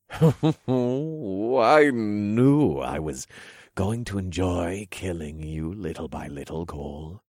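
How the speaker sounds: slow, drawn-out villain taunt. Acted. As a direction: savour every word like a cruel king. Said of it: "King Donovan taunted".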